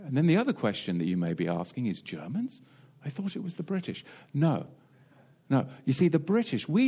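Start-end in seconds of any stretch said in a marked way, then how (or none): 2.0-4.0 puzzled listener. Retold or imitated. Voicing the listener's puzzled objection.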